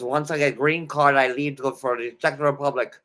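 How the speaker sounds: put-on light Russian accent for a woman; hint of a Russian accent, half-hearted. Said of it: "doing a Russian accent's hard".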